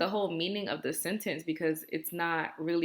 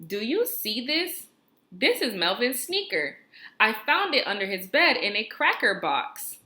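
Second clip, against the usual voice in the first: higher, brighter expressive read-aloud; exciting voice; 4 semitones higher than usual. Shown as a demonstration. Teacher reads the example aloud, excited. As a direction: read it like the kid is thrilled. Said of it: "I have to read it with my exciting voice".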